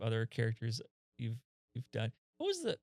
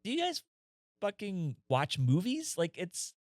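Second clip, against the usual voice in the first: exasperated rant; 6 semitones higher than usual. Retold or imitated. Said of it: "I'm like".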